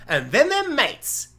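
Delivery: high, slow punchline to a pitch; mock pitch. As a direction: sell the absurd twist, drawn out. Pitches absurd show premise.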